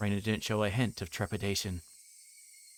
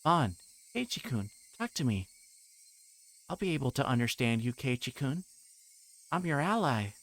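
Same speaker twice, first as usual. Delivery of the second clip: put-on higher, singsong girlish voice; sweetly insistent, with menace underneath; sweet creepy girl; 4 semitones higher than usual. Reina coaxing Keiichi to talk, creepy sweetness.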